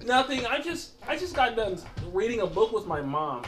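put-on little kid voice, slowed down. Voicing the niece answering.

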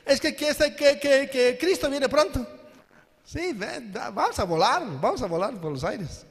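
mock excited about flying away; goofy churchgoer getting carried away; silly rapture pitch. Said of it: "así predicamos".

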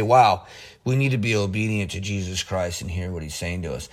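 low, soft murmur of a repentant believer; humble believer. Pretend. Preacher voicing a believer who stops and listens, low and quiet. Believer voiced in self-reproach.

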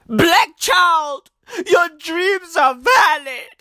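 rally the crowd with it; shouted pep-talk ending in a laugh; rousing shout. Real, not acted. Rousing hype to the audience.

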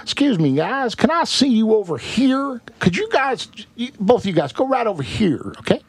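sugary host calling them aside; mock polite Doctor Phil; imitating Doctor Phil. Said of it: "Stands up".

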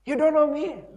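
very high, loud, incredulous cry; excited disbelief. Acted. Stranger in heaven to forgetful acquaintance, high excited disbelief. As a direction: shoot the pitch up, amazed not to be known.

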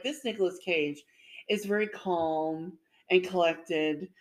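slow, even, composed Cage voice; lightly voiced calm Nicolas Cage, unhurried; calm and collected. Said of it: "the real Nicolas Cage is like".

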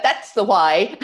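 laughing through a high, loud parent line; laughing mock parent. Mother laughing as she repeats her old answer to kids, laughing and loud. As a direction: crack up while doing the parent's stock answer. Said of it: "We used to hear that".

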